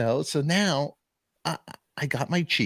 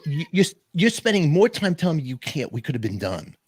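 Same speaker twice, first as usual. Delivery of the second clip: exasperated retort, pushed higher and louder; getting pissed; 5 semitones higher, 4 dB louder than usual. Retold or imitated. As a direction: argue back with rising irritation. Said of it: "Now I'm getting pissed".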